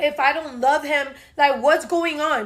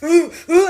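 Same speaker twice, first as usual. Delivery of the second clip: mock crying; 5 dB louder than usual. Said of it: "this dude started crying profusely".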